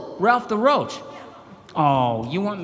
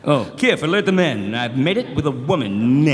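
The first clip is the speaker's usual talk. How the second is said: cartoon character voice; 5 dB louder than usual. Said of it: "I'll do some voices".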